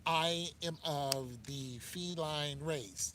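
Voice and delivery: slow, mock-solemn proclamation; mock declaration. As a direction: draw it out like a grand announcement, mocking. Mocking people who identify as animals.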